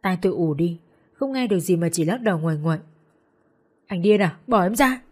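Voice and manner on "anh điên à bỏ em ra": frantic struggle. Acted. She struggles against him.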